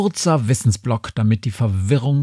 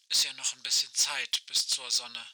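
crackling radio voice, much softer; like a far-off voice over a walkie-talkie; old rotary phone; 2 semitones lower, 12 dB quieter than usual. Acted. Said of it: "Aisches Stimme knarzt durch das Funkgerät".

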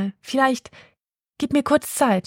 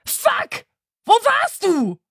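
high, sharp cry of fright; startled shriek; 12 semitones higher, much slower than usual. Acted. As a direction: jump out of your skin and yelp. Startled by a sudden "Buh.

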